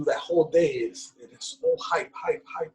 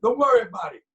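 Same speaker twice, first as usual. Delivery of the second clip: high, loud mock mother fretting; hammed-up anxious mother; imitating worried mom; 7 semitones higher, 4 dB louder than usual. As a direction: fuss over him like a worried mom. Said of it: "my mom is like".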